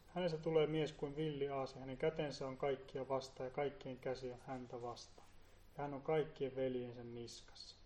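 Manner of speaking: hushed, reverent reading of the verse; soft scripture reading. Shown as a demonstration. Reads scripture softly. (hiljainen, hartas raamatunluku)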